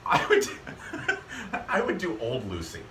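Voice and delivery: giggling through the words; laughing. Real, not acted. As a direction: laugh while getting it out. Laughing into impression.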